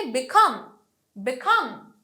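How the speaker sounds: বিকাম with strong falling কাম; light বি, punched কাম in বিকাম; stress on root word. Shown as a demonstration. Teacher drilling derived words, বিকাম stressed on কাম. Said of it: "main ওয়ার্ডটাতে আমরা সবসময় stress দিই".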